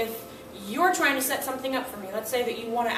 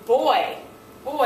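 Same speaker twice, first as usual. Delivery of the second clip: teacher announcing the word; 2 semitones higher, 5 dB louder, slower than usual. Retold or imitated. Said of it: "I say".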